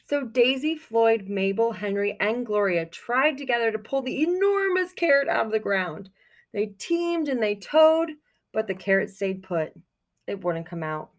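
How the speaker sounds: put-on reading a picture book aloud to children; storybook reading. A narrator's reading. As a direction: tell it like storytime for kids.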